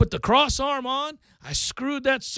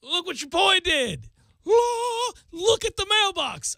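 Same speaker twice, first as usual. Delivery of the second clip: proud show-off; 8 semitones higher, slower than usual. Retold or imitated. Proudly showing off his mailbox.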